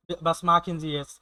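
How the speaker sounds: spoken very slowly, word by word; slow German example. Shown as a demonstration. Teacher reading a German phrase slowly to students. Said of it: "teaching German phrase".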